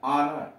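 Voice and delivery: ऑनर begun straight on the vowel; no h at the start of ऑनर; silent h in ऑनर. Shown as a demonstration. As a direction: say ऑनर with no h sound. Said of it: "यच silent है यहाँ".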